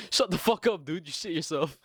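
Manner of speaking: mocking outburst. Friends mocking the returning kid.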